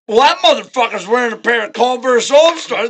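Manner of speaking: rowdy party-goer out for mischief; mock outrage. Party-goer finds friend passed out in shoes, mock outrage.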